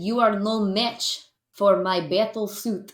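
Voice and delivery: a touch of a Russian villain, slowed down; Russian accent. Pretend. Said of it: "so I said".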